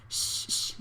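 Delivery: soft urgent whispered shush; hushing. Acted. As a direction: shush him quickly. Hushing a friend in bar.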